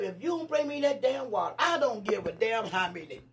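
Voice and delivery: loud, laughing mock threat; cracking up while barking orders; laughing rant. Threatening boys for water, laughing.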